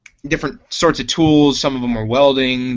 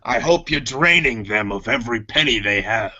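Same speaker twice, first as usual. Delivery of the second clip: lightly voiced alien mechanic, sly; Chopper chatting. Mechanic Chopper teases the crew, lightly voiced. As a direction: relish the thought, then ask kindly.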